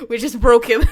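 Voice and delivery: laughing through the words; giggling in disbelief. Real, not acted. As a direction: crack up while saying it. Laughing at game twist.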